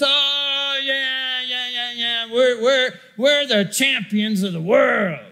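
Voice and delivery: mock the jeering drunk behind you; drunk fan yelling. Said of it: "drunk guy ... yells".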